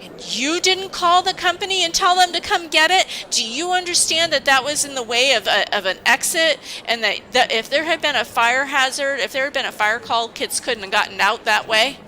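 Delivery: high, loud, indignant boss voice, retelling her lecture; mock scolding boss.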